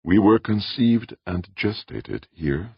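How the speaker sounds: put-on Audrey, old man. A narrator's reading.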